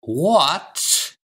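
high, startled burst without full volume; startled roar. A narrator's reading. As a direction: exclaim in shock, a mild roar. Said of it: "he roared".

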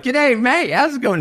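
high, hollered mock Australian greeting; imitated Aussie accent. Imitating a friend barging in on a phone call, yelled Aussie accent. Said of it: "with your Aussie accent".

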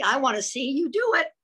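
excitedly. A narrator's reading.

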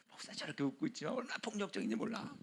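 hushed sly aside; gossiping whisper. Retold or imitated. Gossip whispering about the smiling pastor, hushed. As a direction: keep the rumor secret and hushed.

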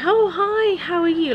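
put-on cheer. Faking cheer on meeting him.

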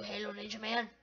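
low, soft name-drop; muted grumble. Real, not acted. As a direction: say the name low and under-powered. Repeats the name in dislike.

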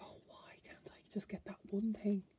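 breathy whisper, wistful; whispered fairy quote. Retold or imitated. Voicing the stuck fairy on the card, whispered. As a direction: whisper the fairy's sigh of longing.

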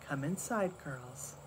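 put-on soft, hushed call to the girls; mother quietly calling the girls inside; spoken softly. A narrator's reading. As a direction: gently draw them indoors. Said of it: "She spoke softly".

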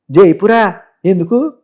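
mock incredulous master's demand; Rao Gopal Rao. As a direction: put on a questioning boss a little. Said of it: "Rao గోపాలరావు గారు owner".

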